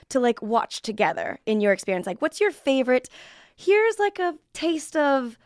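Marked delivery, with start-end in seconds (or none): 3.5-5.4 carnival barker. Pretend. Playful pitch of nerd stuff.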